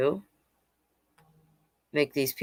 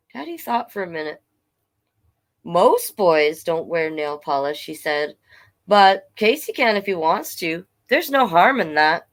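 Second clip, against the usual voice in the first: story narration. A narrator's reading. Reads picture book aloud.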